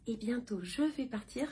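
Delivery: croaky just-woke-up morning voice; morning vocal fry, first words today. Real, not acted. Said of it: "J'ai ma voix du matin".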